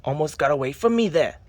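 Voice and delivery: put-on broad Australian accent, hammed up; fake Australian accent. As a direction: play a mock Aussie card-show host. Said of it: "the correct Australian accent".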